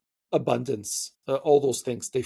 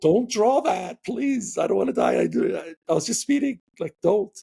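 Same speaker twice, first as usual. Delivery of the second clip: mock panicked pleading; 4 semitones higher than usual. Pleading with imagined armed officer.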